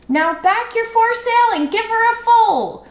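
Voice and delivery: high, loud frantic command; owner screaming. A narrator's reading. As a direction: scream the order out to the boat. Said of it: "screamed the owner of the Wasp".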